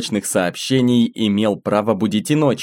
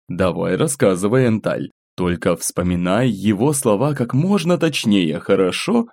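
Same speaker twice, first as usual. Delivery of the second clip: gentle. Acted. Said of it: "ласково попросил её старейшина".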